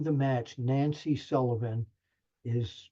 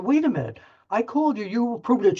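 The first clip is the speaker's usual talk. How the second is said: raised, higher mock-heated protest; retelling his own alarmed shout at Savage, raised; 9 semitones higher, 4 dB louder, faster than usual. Retold clash with Savage.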